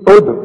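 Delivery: ادخل with the d popped and echoed; qalqalah on د. Shown as a demonstration. Teacher saying look at the dal, bounced ادخل. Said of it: "شوف الدال".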